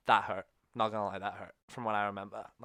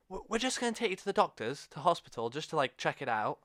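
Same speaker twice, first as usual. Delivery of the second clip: reassuring; 5 semitones higher than usual. Retold or imitated. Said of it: "they're just trying to keep me calm".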